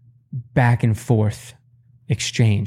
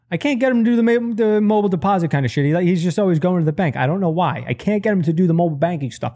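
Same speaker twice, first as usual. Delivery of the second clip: higher, fast exasperated complaint; pitched-up mock mom rant; 5 semitones higher, faster than usual. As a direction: rattle it off like a fed-up mother. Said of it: "She'll be like".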